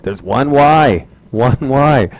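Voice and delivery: slow, drawn-out insistence on one Y; lightly mocking student; mock insistent student. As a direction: play the stubborn student pointing at it. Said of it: "They're like pointing to it".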